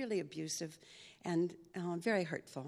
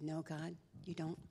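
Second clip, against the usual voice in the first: softer, small voice; sheepish admission; 2 semitones lower, 9 dB quieter than usual. Real, not acted. Answering God, much softer and sheepish.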